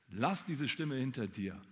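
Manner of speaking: slow, breathy whisper; urgent whisper. Real, not acted. The preacher urges the congregation to leave the voice behind, in a slow whisper. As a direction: lean in and whisper the call to jump. Urging after the inner voice.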